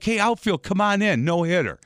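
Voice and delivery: lightly voiced cocky girl calling out; a hint of a cheeky catcher; mock catcher taunt. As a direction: tease the batter from behind the plate.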